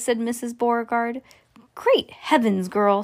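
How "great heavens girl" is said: ordinary delivery, nothing marked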